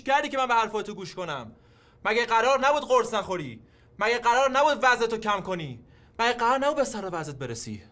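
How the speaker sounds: angry reproach. Acted. Son scolding mother.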